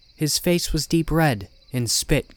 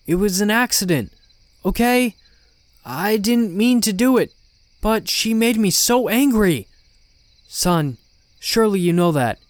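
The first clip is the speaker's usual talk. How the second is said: high, raised voice of frantic excuse; distraught confession; desperate pleading; 8 semitones higher, 4 dB louder than usual. Acted. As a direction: beg to be believed, voice pitched up. Father's desperate confession to his son.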